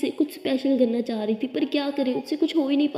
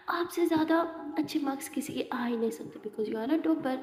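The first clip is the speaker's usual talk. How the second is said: whisper; 7 dB quieter than usual. Acted. Anokhi reassuring Abira.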